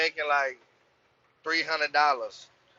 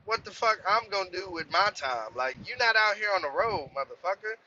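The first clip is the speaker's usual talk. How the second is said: higher, heated swearing back at her; retold angry rant; 5 semitones higher than usual. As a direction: replay the blow-up, worked up and higher. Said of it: "And I'm like".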